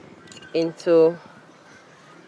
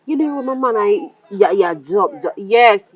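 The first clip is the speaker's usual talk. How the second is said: loud, heated scolding in patois; angry dressing-down in a bar; 6 dB louder, slower than usual. Acted. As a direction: tell him off hard, voice rising.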